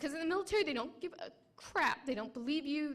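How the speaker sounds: fighting back tears as she speaks; crying. Real, not acted. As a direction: voice breaking with real tears. Testimony of trauma, crying.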